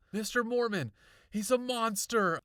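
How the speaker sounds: high, loud urgent cry; panting alarm. A narrator's reading. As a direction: insist in alarm, crying out. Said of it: "I repeated, panting like a dog".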